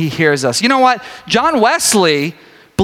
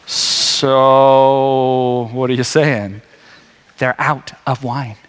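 mother and son; 7 semitones lower, much slower than usual. Retold or imitated. Jesus and Mary retold dialogue.

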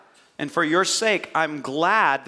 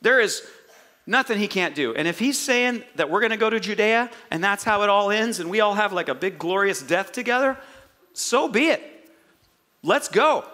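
acted-out eager disciple, raised pitch; confident faith; 3 semitones higher than usual. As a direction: declare it like a follower who's all in. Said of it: "Look at the confidence and the faith".

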